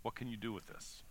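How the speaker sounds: soft, halting plea with long pauses; earnest offering. Acted. Andrew handing God a start, earnest and soft. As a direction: offer it up quietly, leaving space between phrases. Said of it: "I think he's saying".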